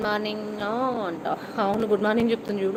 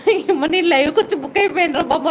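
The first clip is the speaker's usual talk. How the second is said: higher, quick and laughing; laughing mock quote; 4 semitones higher, 4 dB louder, faster than usual. Streamer mimicking viewer's imagined regret, laughing. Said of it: "అనుకునేవు".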